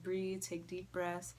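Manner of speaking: slow, soft coaching; calming paramedic. Retold or imitated. Paramedics calming the panicking patient, slow and soft. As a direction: imitate slow, soothing instructions. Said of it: "trying to calm me down".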